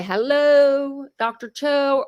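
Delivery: calling her doctor, a bright polite greeting; sweet phone greeting. Retold or imitated. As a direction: play it sugary for the doctor.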